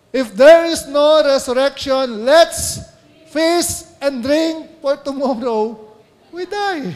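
high, loud, slow mock party cry; loud mocking quote of the partygoers; mocking the scoffers. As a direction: ham up the careless revellers. Preacher quoting carefree scoffers.

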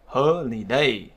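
Holiday drawn out slowly; slow teaching demo, HO-li-day; stress on first syllable. Shown as a demonstration. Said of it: "vào âm tiết thứ nhất".

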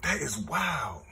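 quiet stunned repeat. Real, not acted. Repeats in disbelief.

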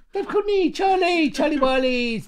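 high, forced tough cockney call; gangster South London voice. Retold or imitated. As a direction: try to sound hard, failing high. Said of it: "my best gangster South London voice".

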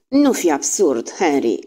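mild, slow scolding; wife rebuking her husband, understated; sharp rebuke. Acted. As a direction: put him in his place. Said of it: "îl apostrofă nevastă sa".

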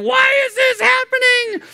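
shrill high panicked cry; hammed-up high panic; panicked husband. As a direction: squeal it like a frantic husband. Mimicking a husband at childbirth.

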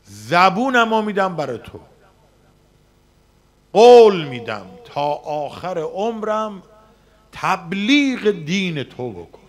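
loud, pleading vow to God; retelling a prayer made at the Kaaba, loud and fervent. Retold or imitated. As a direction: cry the promise out toward heaven.

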